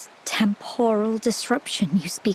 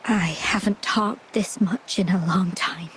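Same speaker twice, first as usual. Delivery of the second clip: tired; 4 dB quieter than usual. Acted. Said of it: "I'm just a little tired".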